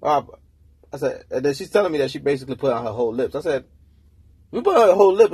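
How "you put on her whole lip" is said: a sharp high, loud jump of disbelief; can't believe what he's hearing; incredulous retold question. Retelling his phone argument to the girlfriend, incredulous.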